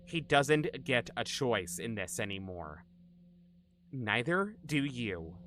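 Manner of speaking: put-on slow, menacing psycho girl voice; crazy psychopath girl. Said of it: "You do a crazy psychopath girl voice really well".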